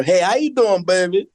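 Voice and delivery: hint of a smooth Southern rapper greeting. Host doing a Southern rapper pimp, lightly Southern rapper voice. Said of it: "you talk like you're a Southern rapper".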